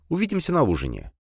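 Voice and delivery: put-on high girlish "увидимся на ужине", falling off; young daughter. A narrator's reading.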